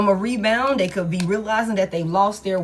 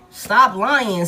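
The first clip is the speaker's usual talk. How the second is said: louder repeat; 6 dB louder than usual. Acted. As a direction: stop lying, louder and firmer. Repeats the order, second time harder.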